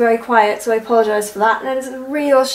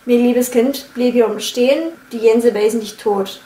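Berlin accent. Shown as a demonstration. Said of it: "stick with the pattern".

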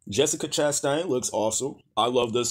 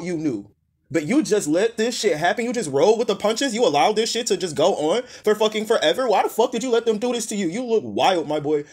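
incredulous dressing-down; exasperated scolding; 4 semitones higher than usual. Real, not acted. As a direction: chew him out in disbelief. Scolding the actor directly.

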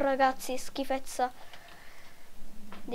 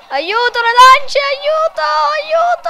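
climbing higher with each aiuto; a cartoon victim squealing louder and higher; mock cries for help; 8 semitones higher, 7 dB louder than usual. Gamer voicing the child hit by spears, rising mock panic.

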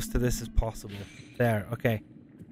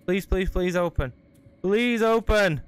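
desperate pleading; 4 semitones higher than usual. Real, not acted. Chased, door stuck.

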